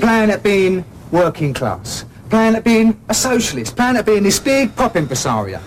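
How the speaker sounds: slow, contemptuous jabs; sneering. Acted. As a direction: drag it out to belittle him. Sneering at bandmate's pretensions.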